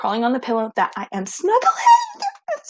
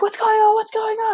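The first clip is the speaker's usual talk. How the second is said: higher, alarmed roommate asking what's happening; worried roommate; 13 semitones higher, 3 dB louder than usual. Retold or imitated. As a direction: play the startled roommate running over. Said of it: "She's like".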